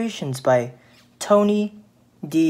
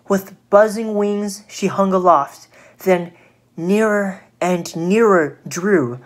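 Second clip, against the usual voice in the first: put-on lamenting storyteller for children; expressive, measured poem reading; dramatic story narration; 4 semitones higher, 3 dB louder than usual. A narrator's reading. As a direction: read it as a cautionary verse, with feeling. Narrates the fly's downfall.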